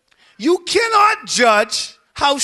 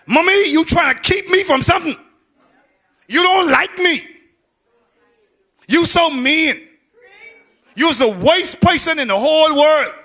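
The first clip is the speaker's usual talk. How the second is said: higher-pitched mock child complaint; upset child; 4 semitones higher, 3 dB louder than usual. Same children tomorrow accusing mommy, acted upset. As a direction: act out a child turning on mommy, high.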